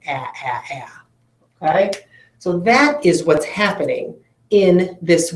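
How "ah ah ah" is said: "ah" as a short quiet a, repeated; short a sound. Shown as a demonstration. Teacher sounding out the short vowel for the class, softly. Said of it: "it usually says its short sound".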